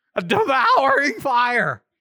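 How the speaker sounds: voice cracking mid-phrase on the repeat. Reading a scripture passage aloud to listeners, with voice breaking. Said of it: "Hear the break in my voice".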